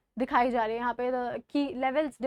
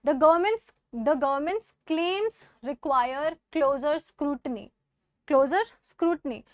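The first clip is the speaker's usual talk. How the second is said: skeptical reading; much slower than usual. Shown as a demonstration. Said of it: "it can be skeptical".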